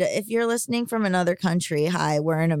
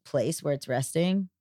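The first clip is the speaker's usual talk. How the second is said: monotone voice. Real, not acted. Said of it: "I feel like I sound very monotone now".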